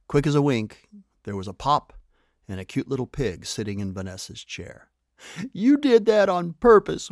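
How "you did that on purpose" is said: high, loud wail of protest. A narrator's reading. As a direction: wail it out, much higher and louder. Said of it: "wailed Vanessa the pig".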